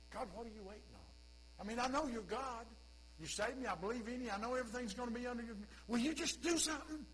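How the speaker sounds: a mild, pleading impatience; impatient prayer. Pretend. A believer urging God to act, mildly impatient. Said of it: "respond just like Mary".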